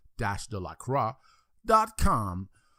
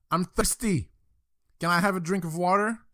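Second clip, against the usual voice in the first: put-on higher-pitched little boy voice; pestering kid; 6 semitones higher than usual. Small boy pesters dad after lights out, pestering kid. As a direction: pipe up hopefully, like a child. Child pesters father in joke.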